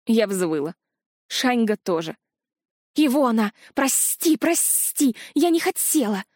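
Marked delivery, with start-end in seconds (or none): 3.0-6.2 high, pleading rush of sorry; wailing apology. A narrator's reading. Ghost wails sorry to the hurt girl, pleading. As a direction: beg forgiveness in a panic. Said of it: "запричитала Эквара".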